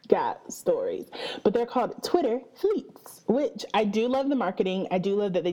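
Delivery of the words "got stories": got stories said slow and far lower; deep deadpan drop. Acted. Host joking Twitter copied stories too, slow deep deadpan drop. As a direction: sink the voice low and slow to land the joke. Punchline after whispered build-up.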